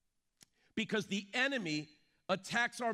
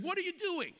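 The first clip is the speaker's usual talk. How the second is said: higher-pitched mock indignation; stern young son; 4 semitones higher than usual. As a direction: lightly act out a son scolding his dad. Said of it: "looked at his dad very sternly".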